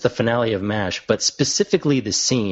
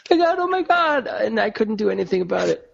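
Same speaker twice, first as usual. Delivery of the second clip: high, breathless through laughter; can barely talk for laughing; laughing hard; 11 semitones higher than usual. Real, not acted. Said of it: "I think he's gonna pass out".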